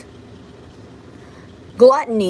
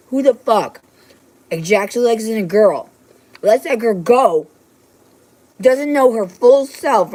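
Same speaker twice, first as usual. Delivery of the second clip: angry rant; 3 dB louder, slower than usual. Real, not acted. Ranting at the man.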